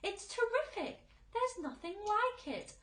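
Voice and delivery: very high, loud boasting; excited cry. A narrator's reading. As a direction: crow about it. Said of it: "the centipede cried".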